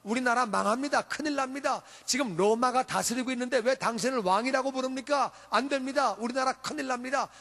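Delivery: lightly voiced indignant Pharisees; protesting Pharisees. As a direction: lodge an urgent complaint with the teacher, mildly acted. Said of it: "바리새인들이 말합니다". (살짝 흉내 낸 바리새인들의 항의)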